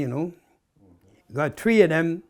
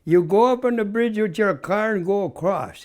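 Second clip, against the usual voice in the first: gruff boss; 6 semitones higher than usual. Retold or imitated. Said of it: "He had a real gruff voice".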